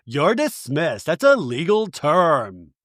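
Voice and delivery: slow, measured put-down; mock dismissive. Acting out Lisa waving off Bronwyn, mock dismissive. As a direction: stretch out a retold brush-off. Retold haughty brush-off.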